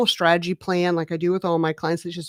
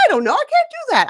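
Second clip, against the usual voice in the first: flustered protest; 3 dB louder, much faster than usual. Retold or imitated. Client balks at moving abroad.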